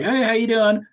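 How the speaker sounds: imitating a deep Rhode Island woman's accent; loud mock Rhode Island greeting. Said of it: "They have these really deep accents".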